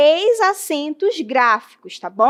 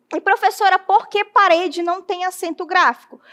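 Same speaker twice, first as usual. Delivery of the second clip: higher-pitched voiced student; student's question; 5 semitones higher than usual. Student asking the teacher about parede, higher questioning voice.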